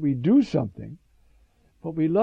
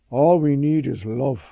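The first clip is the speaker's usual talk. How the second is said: lightly imitated Russian accent, louder; 7 dB louder than usual. Catherine answers the young priest, imitated Russian accent. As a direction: quote her with a loud, light Russian accent. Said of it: "she said in her Russian accent".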